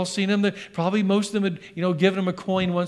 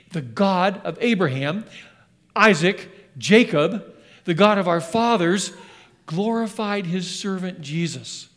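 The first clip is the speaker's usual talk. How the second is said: preached scripture reading. Acted. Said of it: "Let's keep going".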